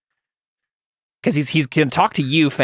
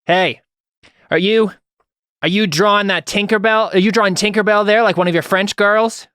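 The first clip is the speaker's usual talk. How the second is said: a touch higher and louder, leering noble teasing; sleazy nobleman; 7 semitones higher, 3 dB louder than usual. Acted. Nobleman taunts Fang across the tavern, lightly leering. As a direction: call out mockingly to the artist. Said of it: "And then he says".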